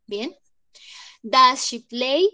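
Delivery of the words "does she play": slow, careful question with rising end; slow model question. Shown as a demonstration. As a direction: ask it slowly like a textbook. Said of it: "teacher modelling question".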